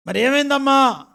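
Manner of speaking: high, loud acted demand; alarmed questioning. Pastor asking the crying caller what happened, loud alarmed questioning. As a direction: call out the question in mock alarm.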